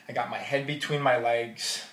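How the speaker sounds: normal talking voice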